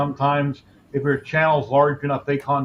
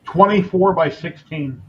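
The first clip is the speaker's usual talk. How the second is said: slower, spelled-out repeat for someone who missed it; slow and clear; 4 dB louder, slower than usual. Real, not acted. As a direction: say it again slowly so he hears. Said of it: "What was that, Jerry? Four what?".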